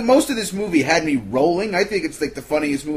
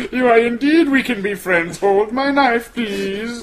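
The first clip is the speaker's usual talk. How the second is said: mock creepy voice; 6 semitones higher, slower than usual. Acting Michael voice.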